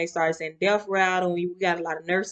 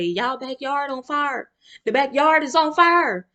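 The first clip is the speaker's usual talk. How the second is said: calling out; 7 semitones higher, slower than usual. Retold or imitated. Passerby calling out to the family, alarmed. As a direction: shout the alarm from the street.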